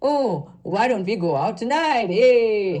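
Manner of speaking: exaggerated, heavily modulated, overdone expressive inflections. Showing how he used to speak with heavy voice modulation: imitating his own past exaggerated modulated voice. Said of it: "I used to speak, um, in that way".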